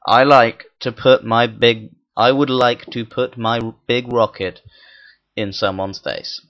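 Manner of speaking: slow, deliberate, emphatic statement; deliberate declaration. Real, not acted. Gamer owning up to a rocket innuendo, deliberate. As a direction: spell it out phrase by phrase.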